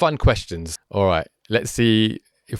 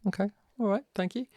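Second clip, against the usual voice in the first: whispering; 12 semitones higher, 8 dB quieter, faster than usual. Real, not acted. Aside before next question.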